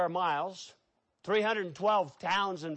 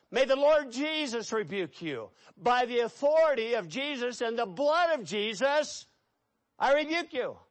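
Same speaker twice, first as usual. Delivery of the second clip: raised, forceful exorcism prayer; commanding rebuke; 5 semitones higher than usual. Shown as a demonstration. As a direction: rebuke the demon with authority, pitched high. Demonstrates rebuking a demon in prayer.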